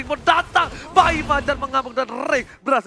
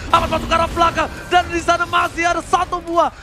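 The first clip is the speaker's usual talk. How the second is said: fighting game announcer; 4 semitones higher than usual. Real, not acted. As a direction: call the dive like an announcer. Caster hypes a dive.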